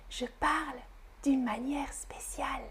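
soft, hushed whisper; secretive whispered announcement. Shown as a demonstration. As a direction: say it under your breath. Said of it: "et je chuchote".

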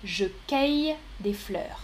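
cueille said with an open "è" vowel; third option. Shown as a demonstration. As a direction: say cueille like "kèy". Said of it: "Trois propositions".

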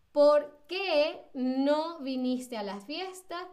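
"¿Por qué" lento y separado, como pregunta; slow, deliberate question with "Por qué" drawn out; pregunta marcada. Shown as a demonstration. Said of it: "fíjense, es una pregunta". (pregunta lenta, con "qué" alargado)

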